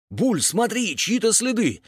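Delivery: high-pitched cry of discovery; excited calling out. A narrator's reading. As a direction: call a friend over to look. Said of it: "закричал Трак". (возбуждённо окликает)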